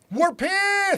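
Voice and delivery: high, loud tough-guy shout; gangster voice. Shown as a demonstration. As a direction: try to sound like a gangster. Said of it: "I was trying to sound like a gangster".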